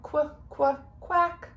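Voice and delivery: high bouncy quacks; ducks quacking. Acted. Ducks quacking back at the quarterback. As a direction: quack back at him cheekily. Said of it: "They'd go".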